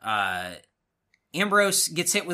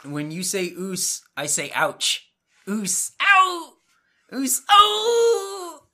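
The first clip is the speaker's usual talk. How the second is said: wrestling promo; 8 semitones higher, much slower than usual. Retold or imitated. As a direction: lead the crowd like a wrestling hype man. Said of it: "The New Day come out and cut a promo".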